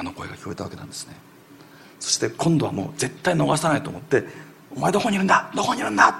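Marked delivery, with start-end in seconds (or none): 4.8-6.1 high, loud desperate call to the lost son. Retold or imitated. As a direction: shout it out as if searching the dark. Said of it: "と叫ぶように言いました". (行方不明の息子に叫ぶように呼びかける声)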